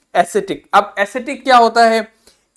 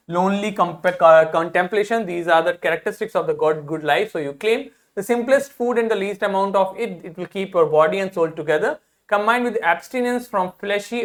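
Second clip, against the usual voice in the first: slow, deliberate reading of an English text; slow classroom read-aloud; much slower than usual. Shown as a demonstration. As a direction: read each phrase slowly for the students. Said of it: "reads an English passage aloud".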